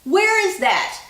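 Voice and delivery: high, puzzled mock question; mock confused. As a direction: act baffled, pitch up. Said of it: "And I'm like".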